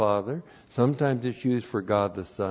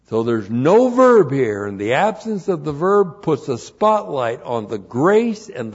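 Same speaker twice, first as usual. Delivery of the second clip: preaching at full force; 3 semitones higher, 6 dB louder than usual. Real, not acted. Repeats point at full force.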